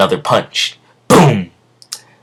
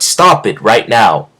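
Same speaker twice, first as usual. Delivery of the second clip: angry command; 4 semitones higher, 6 dB louder, slower than usual. Acted. Dio stops the beating.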